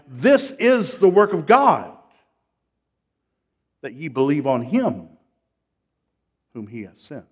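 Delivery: preacher declaring scripture at normal speed; forceful scripture reading. Shown as a demonstration. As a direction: proclaim the verse loudly, then let it settle. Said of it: "Let's read it slowly".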